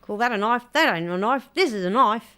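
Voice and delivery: badly faked Australian film quote; hammy, mock Australian delivery; terrible Australian accent. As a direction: do a poor Aussie accent. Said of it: "that was a terrible Australian accent".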